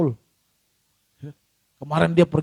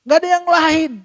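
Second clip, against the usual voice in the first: preached emphasis; 11 semitones higher, 7 dB louder than usual. Acted. Repeated louder as emphasis.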